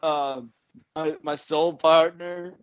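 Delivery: lightly voiced stoned jam-band fan; dreamy burnout dude, drifting; stoned hippie.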